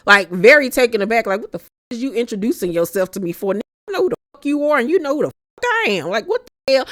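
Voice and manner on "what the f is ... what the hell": rapid, exasperated pretend retort; fast angry comeback. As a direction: fire it off fast, fed up. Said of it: "I wish she would have said that".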